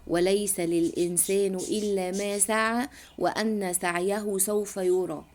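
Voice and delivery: slow chanted recitation of a verse; تلاوة قرآنية بطيئة; Quran recitation. Retold or imitated. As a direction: recite it slowly like tajweed. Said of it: "بيقول لك".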